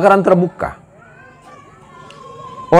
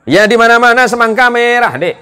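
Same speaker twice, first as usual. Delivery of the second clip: high, loud, laughing retort; a watermelon seller mocking a student's silly question, loudly; loud Madurese seller; 6 semitones higher than usual. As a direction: snap back at the student like a blunt vendor. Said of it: "Orangnya kalau ngomong tuh teriak".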